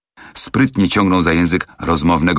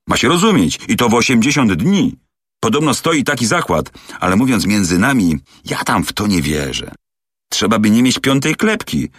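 a touch higher, eager talkative manservant; lightly voiced chatty servant; 3 semitones higher than usual. Servant complains to Fix about the rushed trip, lightly voiced chatter. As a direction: rattle on like a gossiping valet. Passepartout gossips about his master.

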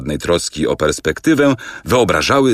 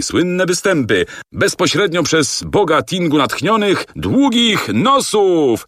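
barker's poster cry; 12 semitones higher than usual. Acted. Narrator reading a circus poster aloud, as a showy barker. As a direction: cry it out like a circus announcer, stretching the end. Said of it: "Na afiszu widniało wypisane po angielsku następujące ogłoszenie".

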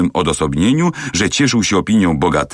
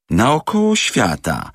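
slow, astonished repetition; mild surprised echo; 4 semitones higher, slower than usual. Acted. Inspector echoes the servant's news, mild astonishment. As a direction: echo it in disbelief. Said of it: "wykrzyknął Fix".

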